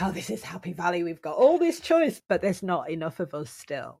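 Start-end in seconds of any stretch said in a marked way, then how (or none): 0.0-2.2 delighted. Acted. Imagining delighted reaction to choice.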